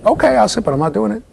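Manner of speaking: high, teasing refusal; sly toddler. Retold or imitated. Toddler answering the parent at the potty, cheeky and high. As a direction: agree then refuse like a cheeky kid.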